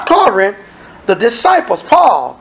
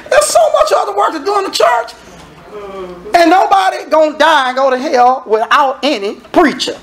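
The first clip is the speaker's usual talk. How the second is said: shouting preacher; 6 semitones higher than usual. Real, not acted. Preacher shouts at congregation about church work. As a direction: drive it home to the pews.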